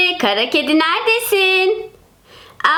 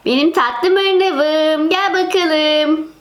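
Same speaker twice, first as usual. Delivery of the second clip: cooing to cat; 2 semitones lower, much slower than usual. Acted. Kedisini seviyor.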